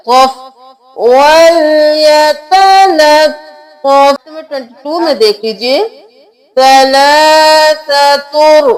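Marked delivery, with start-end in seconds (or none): 1.0-3.4 वल यतलत्तफ with the doubled letter held; careful recited वल यतलत्तफ; correct reading. Shown as a demonstration. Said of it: "दो बार पढ़ेंगे". 6.6-8.7 सलासतुर said slowly, ending in tur; slow careful सलासतुर; correct reading. Shown as a demonstration. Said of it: "तुन ... नहीं करना".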